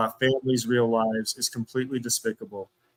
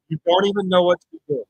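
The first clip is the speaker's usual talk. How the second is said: frustrated; 5 semitones higher, 6 dB louder, faster than usual. Real, not acted. Repeating at chat.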